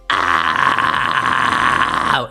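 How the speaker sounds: deep rasping growl scream; loud distorted scream; distorted false chord scream. Shown as a demonstration. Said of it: "it will sound distorted".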